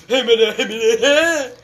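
shouting through laughter; laughing shout. Real, not acted. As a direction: yell it while cracking up.

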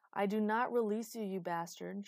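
loud, forceful refusal; commanding shout. A narrator's reading. She refuses to release Idas, shouted command. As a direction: command it with fierce authority. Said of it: "she screamed in command".

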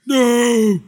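loud, blunt "No."; Hulk's flat refusal. Retold or imitated. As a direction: bark the "No." like a stubborn refusal. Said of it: "It was".

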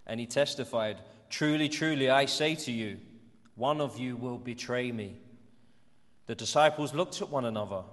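measured Bible reading with deliberate pauses; scripture reading. A narrator's reading. Church leader reading John's Gospel to the congregation, measured scripture reading. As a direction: read it out phrase by phrase to a congregation. Reads the Bible passage aloud.

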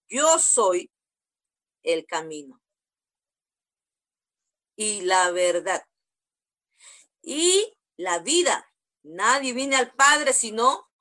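low, slow, weighty words; solemn declaration. Acted. Preacher voicing Jesus declaring I am the way, low and slow. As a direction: drop low and slow, let each phrase land.

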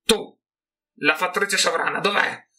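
high, loud rat shriek. A narrator's reading. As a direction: screech the demand at the disguised man. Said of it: "strillò".

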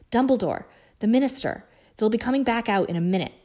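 loud, breathless urgent warning; panted. A narrator's reading. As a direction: push it out high as if winded. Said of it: "Hermione panted".

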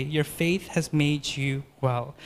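gentle blessing. Acted. Reads Jesus' blessing.

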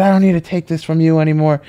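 fed up, standing up to the boss; snapping back. Retold or imitated. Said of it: "I just snapped".

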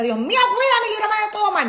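high, loud pleading prayer; hammed-up prayer to God for protection; mock pious prayer. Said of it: "Porque uno dice".

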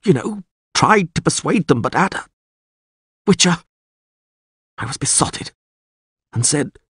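high, halting, anxious voice; distraught captive lord. A narrator's reading. Bound lord doubts his own guilt before the witcher, distraught. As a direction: falter between long pauses, searching for blame.

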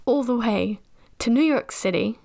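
New York City in a put-on American accent. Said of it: "saying it in an American accent".

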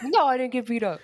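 mock high denial; imitating Jeremy. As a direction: whine the denial like the brother.

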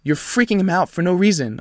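firm retold telling-off; controlled anger, each word driven home; pissed off. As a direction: lay down the law, annoyed. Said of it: "'cause I was pissed".

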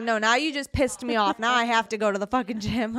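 mock angry outburst. Angry retort to boyfriend, retold.

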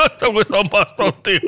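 giggling through the shopkeeper's line; amused retelling of the shop owner; laughing while quoting. Retold or imitated. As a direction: quote broken up by laughter. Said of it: "Así me dijo".

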